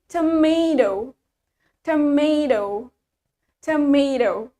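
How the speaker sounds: tomato drawn slowly as tuh-MAY-doh; Australian pronunciation. Shown as a demonstration. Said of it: "In Australian, we say".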